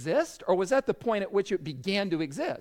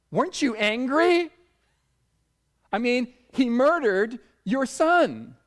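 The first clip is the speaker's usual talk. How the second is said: higher, incredulous blurt; 5 semitones higher, 4 dB louder than usual. Retold or imitated. Pastor retelling his challenge to a grieving mother, blurted out. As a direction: blurt the challenge with rising force. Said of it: "blurted out to her".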